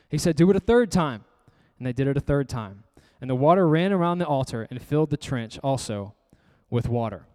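measured, even Bible reading; scripture reading. A narrator's reading. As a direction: read the verse aloud to the congregation. Reads scripture aloud to congregation.

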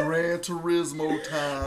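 slow, high, laughing announcement; hyping it up through laughter; laughing hype. Acted. Joking hype while laughing.

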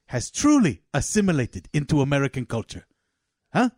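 put-on measured Afghan-accented patriarch, building to a challenge. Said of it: "Two families from Afghanistan".

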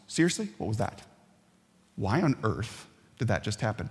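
hushed, disbelieving mutter; a dunked sheep quietly demanding answers; baffled sheep. Retold or imitated. Sheep asking the shepherd, quietly incredulous. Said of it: "the looks you give the shepherd".

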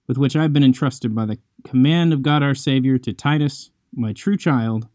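measured, formal Bible reading; scripture reading. Acted. Host reads Titus chapter one to listeners, formal and measured. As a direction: read the passage steadily and reverently.

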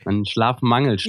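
sleep-deprived, worn voice; sleepy voice. Real, not acted. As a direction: talk as if short on sleep. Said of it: "das ist deine schlaftrunkene Stimme".

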